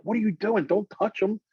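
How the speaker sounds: high-pitched frantic scolding; panicked high plea. Retold or imitated. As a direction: squeal it out in horrified disbelief. Panicked friend kissing the corpse.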